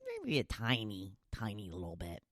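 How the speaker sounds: almost to yourself; quiet. Real, not acted. Quiet reflection on comfort.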